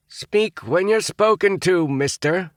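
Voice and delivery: sharp, slow snapping order; snapped. A narrator's reading. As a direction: snap it at the boy. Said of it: "snapped Roger".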